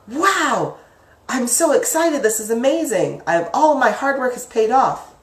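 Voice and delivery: high-pitched, thrilled wow; acted happy excitement. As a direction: react to great news, pitch jumping up. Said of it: "went from being so happy".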